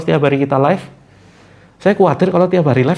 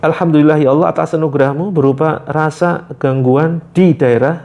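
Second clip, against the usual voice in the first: prayer demo. Shown as a demonstration. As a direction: draw out each phrase. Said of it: "Ingat ucapannya". (doa yang khusyuk)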